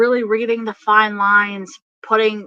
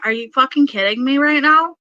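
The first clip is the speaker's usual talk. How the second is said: fast, high, indignant rant; incredulous mock yell; channelled yelling; 6 semitones higher, 4 dB louder, faster than usual. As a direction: rattle off an outraged telling-off for someone else. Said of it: "I'm not yelling at you directly".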